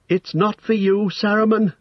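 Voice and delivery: very high, monotone cry; shrill and toneless. A narrator's reading. Startled hobbit shrinking from Gandalf, shrill and toneless. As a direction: cry it out high on one unvarying note. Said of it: "he cried in a shrill and toneless voice".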